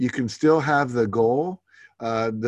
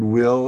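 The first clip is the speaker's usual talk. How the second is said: will pushed out louder; stress on will; 5 dB louder than usual. Shown as a demonstration. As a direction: lean hard on "will". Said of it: "You always wanna put the word".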